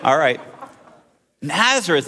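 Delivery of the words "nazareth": exclaiming. Acted. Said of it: "exclaimed Nathanael".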